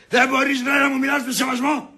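indignant scolding shout; indignant demand. Acted. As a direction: demand respect from a cheeky relative. Quarrel, demands respect.

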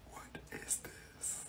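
slow, barely audible whisper; hushed, voiceless disbelief; secretive whisper. Acted. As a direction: whisper it to yourself while snooping. Snooping through friend's phone.

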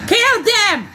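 high excited yell at the TV; shouting at the screen. Real, not acted. Viewer yelling at TV zombies, loud and high.

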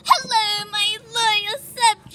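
grand royal greeting; slow, high regal address; warm regal boom. Pretend. Pretending to be Rapunzel royalty.

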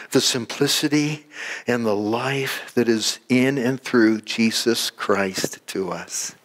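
measured, unhurried prayer; closing prayer. Real, not acted. Pastor thanking Heavenly Father for the congregation, praying. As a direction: pray aloud with long pauses between phrases.

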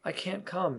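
high, gentle apology; apologetic. A narrator's reading. Wendy refuses Peter's invitation, high and apologetic. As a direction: raise the pitch, apologizing. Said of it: "she said apologetically".

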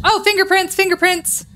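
high excited cry. Real, not acted. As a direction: blurt out the discovery, high. Excited discovery.

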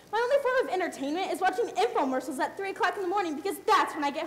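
proud stage manager boasting, mostly in her own voice; grandiose self-important rant. Acted. Stage manager tells lazy actors who she is, grandly. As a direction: puff yourself up, list your glories.

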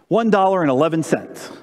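a hint of childlike pride; mildly proud little girl; proudly. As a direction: say it like it's a fortune. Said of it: "Tess said very proudly".

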